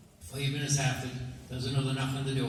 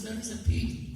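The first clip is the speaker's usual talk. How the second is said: raised, higher put-on voice for the fussy guest; guest's voice; 9 semitones higher than usual. Guest at the farmer's door objecting, higher voice. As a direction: play the guest politely objecting.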